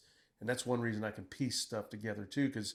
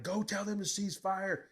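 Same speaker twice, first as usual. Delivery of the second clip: retold urgent order; 8 semitones higher than usual. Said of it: "I'm like".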